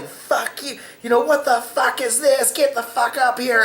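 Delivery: high-pitched mock yell of an angry mother. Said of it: "you hear the mother just yelling".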